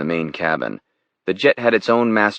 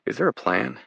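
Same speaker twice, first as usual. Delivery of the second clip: quiet, higher British woman reassuring on the phone; soft British voice; 5 semitones higher, 6 dB quieter than usual. A narrator's reading. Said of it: "Jenna's soft British voice came on".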